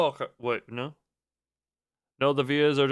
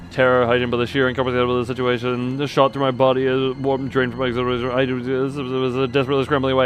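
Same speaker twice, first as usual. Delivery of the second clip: hurried narration; faster than usual. A narrator's reading. Reads game narration at speed.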